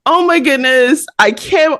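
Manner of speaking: breathless whispered awe; starstruck whisper. Retold or imitated. Fan overwhelmed meeting her favorite author, whispered awe. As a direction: whisper it like you can't believe it.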